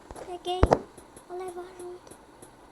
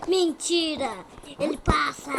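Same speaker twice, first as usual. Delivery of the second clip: surprised; 3 semitones higher, 8 dB louder than usual. Real, not acted. Surpresa que o monstro passa.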